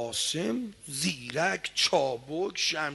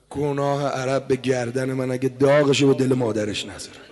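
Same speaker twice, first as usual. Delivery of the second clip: menacing boast; 5 semitones lower, 7 dB louder than usual. Acted.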